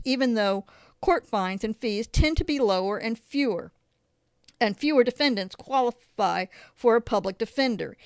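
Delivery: measured, emphatic reading of a report; formal read-aloud voice; article read-aloud. Real, not acted. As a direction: read it out clearly, phrase by phrase.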